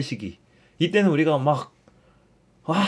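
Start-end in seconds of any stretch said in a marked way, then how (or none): 2.6-2.8 breathy imitation of a cheering crowd; a long, airy pretend "waah" of cheering; mock crowd cheer. Priest showing Easter rejoicing, mock breathy cheer.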